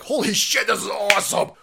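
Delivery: put-on excited kid. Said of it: "Me and my friends would be like".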